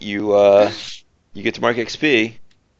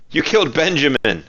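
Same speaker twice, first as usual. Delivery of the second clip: calling out; 5 semitones higher than usual. Acted. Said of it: "a different voice call out".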